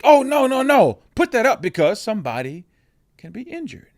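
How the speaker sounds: imitating his own first alarm at the toy; quick mock-alarmed no no no; alarmed warning. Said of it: "My first thought".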